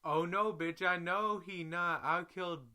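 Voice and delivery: screaming at her friend she'll kill them; furious threat. Retold or imitated. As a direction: blow up at her, high and loud. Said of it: "I said".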